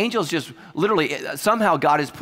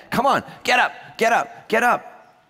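raised-pitch, insistent shouts; urgent wake-up call; 6 semitones higher than usual. Acted. Waking a teenager for school, insistent shouting. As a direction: badger a heavy sleeper to rise.

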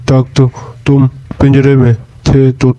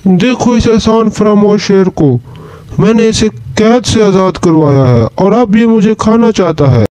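higher-pitched, indignant appeal; mildly acted outrage, pitched up; aggrieved complaint; 4 semitones higher than usual. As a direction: complain to a passer-by about the ungrateful one. Man complains to fox about lion.

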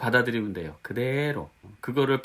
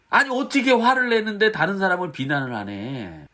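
higher-pitched mock protest; incredulous objection; 5 semitones higher than usual. Preacher voicing their old confused thought, incredulous. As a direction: object as if it makes no sense. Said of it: "뭐 이렇게 생각했는데".

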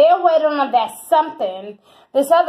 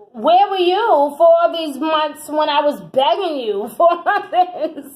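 laughing; 4 semitones higher, 3 dB louder than usual. Real, not acted. Laughing at the asker.

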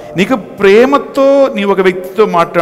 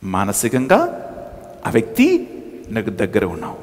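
tender hush; 11 semitones lower, 8 dB quieter than usual. Shown as a demonstration. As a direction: murmur closeness softly. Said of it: "తీయగా మాట్లాడతారు". (మృదువైన తక్కువ స్వరం)

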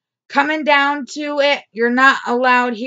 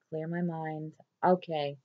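P=A; hushed to herself; 7 semitones lower, 14 dB quieter than usual. Real, not acted.

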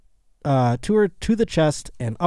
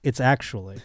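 softer, low voice with teasing pauses; soft mock reveal; 5 semitones lower, 7 dB quieter than usual. Retelling a sketch's reveal of the cauliflower, quiet and low. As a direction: draw out the reveal quietly, pausing before the last word. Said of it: "she goes".

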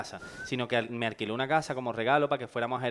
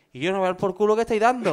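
annoyed sleeper; 8 semitones higher, 7 dB louder than usual. Retold or imitated. Groggy friend wakes up annoyed.

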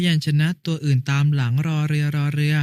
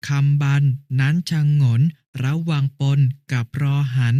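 even, measured poem recitation; reciting verse. Shown as a demonstration. Brother reciting the poem for his sister on request, measured recitation. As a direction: recite phrase by phrase, evenly. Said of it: "พี่กล้าช่วยท่องให้ฟังหน่อยสิคะ".

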